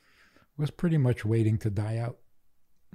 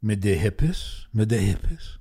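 horrified grandfather; 2 semitones lower than usual. Retold or imitated.

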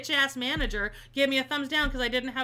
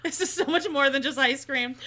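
laughing through the words, a bit louder; 3 semitones higher, 3 dB louder than usual. Real, not acted. Laughing at her own ordeal.

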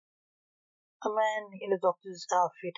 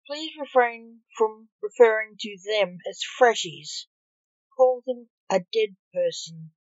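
loud, indignant reprimand, voiced rather than whispered; louder scolding doctor; hissed rebuke; 3 semitones higher, 6 dB louder than usual. A narrator's reading. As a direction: correct them sharply, with force. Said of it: "hissed the doctor".

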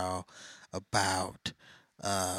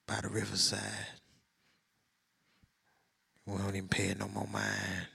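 smooth Mac Daddy voice. Shown as a demonstration. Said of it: "smooth Mac Daddy voice".

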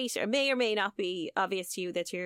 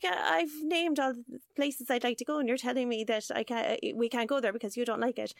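frustrated; 4 semitones higher than usual. Retold or imitated. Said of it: "The woman gets frustrated".

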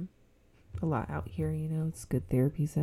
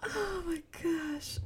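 laughing; 6 dB quieter, much slower than usual. Real, not acted. Laughing fit at 2 a.m.

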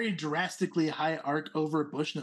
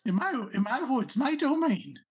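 lightly raised, pompous little prince; a hint of a haughty rabbit noble; 8 semitones higher, 4 dB louder than usual. Prince claims his woods.

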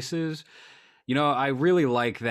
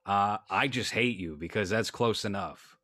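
slow, deliberate mock of a bigoted vet; lightly hammed-up eighties bigot; slower than usual. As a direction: drawl out his crude logic. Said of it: "to be like".

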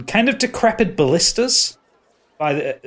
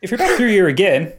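slipping into Irish; 4 semitones higher, 3 dB louder than usual. Acted. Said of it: "no, it's gone Irish".

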